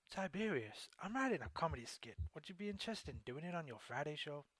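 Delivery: accidental American accent attempt; a Southern English try that slips American. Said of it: "I ended up doing an American one".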